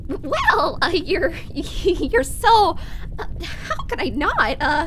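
laughing through tears; choked up. Acted. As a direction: voice catching with emotion. Moved by thanks.

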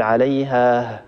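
عليها ending in an extra breathy h sound; wrong added ha. Shown as a demonstration. Teacher showing the mistaken stop with an added ha. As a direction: finish عليها with a puffed h. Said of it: "هذا خطأ".

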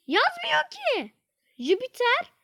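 high, slow whine; whiny complaint. Real, not acted. Gamer whining that the answer isn't listed. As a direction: drag it out in a whine.

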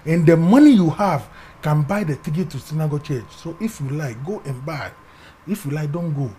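hushed, calm voice of God; God's gentle voice. Retold or imitated. God softly telling his son to choose. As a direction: speak softly, as God gently offering a choice. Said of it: "God said".

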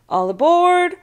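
high, loud call. A narrator's reading. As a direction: belt it across the gangplank. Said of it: "He kept calling".

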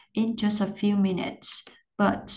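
careful chunked practice reading; pauses at the breaks. Shown as a demonstration. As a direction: stop after "minutes" and again after "But". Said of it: "Có dấu phẩy thì cắt".

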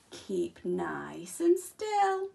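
slow, drawn-out buzzy fly voice; buzzing flies. Acted. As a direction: stretch it out like a droning fly. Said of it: "buzzed the flies".

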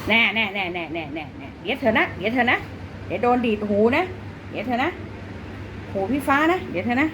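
sing-song threat of an ear flick to the cat; playful scolding. Real, not acted. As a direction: tease the cat with a singsong warning.

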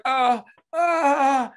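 high, loud mock whimper; hammed-up tearful uh-uh; imitated crying whimper. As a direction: mimic a fan sobbing overwhelmed. Imitating the fan's crying noise.

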